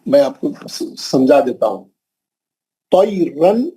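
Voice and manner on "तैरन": slow, measured Quran recitation; careful tajweed demonstration; practice recitation. Shown as a demonstration. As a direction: recite it slowly with drawn-out long vowels. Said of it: "आप practice करा रहा हूं".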